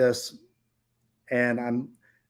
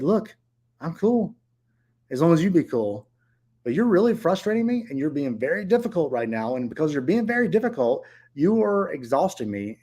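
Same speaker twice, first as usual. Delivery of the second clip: retold frustrated scolding; 3 semitones higher than usual. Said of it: "I got frustrated with her".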